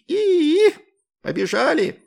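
very high, loud shriek into a bark; barked yell. A narrator's reading. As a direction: shriek and call to run. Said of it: "гаркнул другой". (громкий визгливый вопль)

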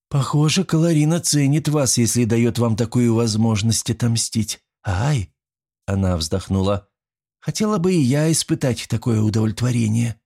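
wistful, a little eager; envious young woman. Acted. Young woman envying the jailer's revenge, lightly voiced. Alisanna envies his revenge.

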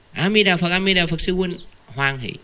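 a touch of cheerful welcome; cheery greeting. Acted. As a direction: greet a fellow practitioner readily. Models an easy greeting to fellows.

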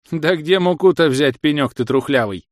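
nagging village granny; scolding old woman. Acted. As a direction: scold him like a cranky old wife. Old wife snaps. (ворчливая старуха)

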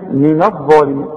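من الظالمين with thin NA, then dark DHA; heavy dha only. Shown as a demonstration. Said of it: "الظا هي المفخمة".

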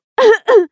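loud, high hammed-up cough; fake cough. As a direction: cough theatrically. Faking a cold on the phone. (нарочитый кашель)

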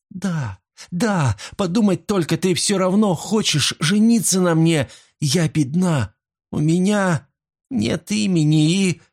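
excited. Acted. Sylvia overjoyed at his love.

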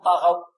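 طغوا with thin, light ط and غ; wrong light طغوا. Shown as a demonstration. Teacher shows students the error to avoid, thin light طغوا. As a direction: say طغوا without any heaviness. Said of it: "لا نقول".

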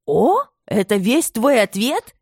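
a furious mother demanding an answer; angry shout. A narrator's reading. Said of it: "закричала разгневанная мать".

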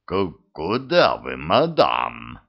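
stammering, nervous question. Acted. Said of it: "нервно спросил колдун".

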